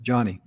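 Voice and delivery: "Johnny" with the vowel of John; "Johnny", ah in the first syllable; name pronunciation. Shown as a demonstration. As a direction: say "Johnny" to rhyme with Bonnie. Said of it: "but she pronounced it".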